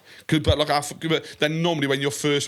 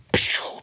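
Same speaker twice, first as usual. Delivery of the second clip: mouthed toy-gun shot; imitated gunshot pew. Showing co-host his sound clip, imitated gunshot. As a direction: fire off a pretend "pew". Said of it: "pretending to shoot my missus".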